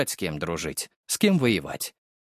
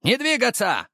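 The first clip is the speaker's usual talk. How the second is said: yelled order; 11 semitones higher than usual. A narrator's reading. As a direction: shout them down. Police shouting commands.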